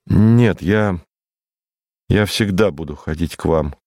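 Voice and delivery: mildly determined promise, halting at first; resolute. A narrator's reading. Boy promises his friend he will keep coming, mildly resolute. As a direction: hesitate briefly, then settle it firmly. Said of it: "ответил я решительно".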